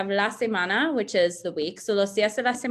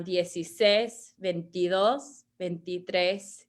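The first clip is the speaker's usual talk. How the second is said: "dieciséis", "veintidós", "veintitrés" with the accented last syllable leaned on; accented syllables shown; slower than usual. Shown as a demonstration. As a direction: stretch the accented final vowels slowly. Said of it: "have the accents over".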